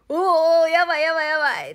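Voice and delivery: loud, high, laughing panic cries; panicked yelling. Retold or imitated. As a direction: yell in alarm while laughing. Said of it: "恥ずかしいけど". (笑いながら叫ぶ)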